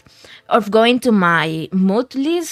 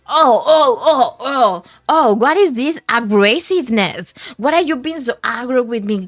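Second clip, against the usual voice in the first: mock offended; 3 dB louder than usual. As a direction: play shocked at the insult. Reacting to rude chat.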